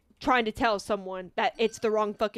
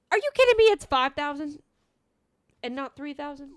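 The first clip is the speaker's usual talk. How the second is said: surprised outburst; 2 semitones higher than usual. Real, not acted. Driver realizing the order is wrong, shocked outburst. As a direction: blurt it out in shock.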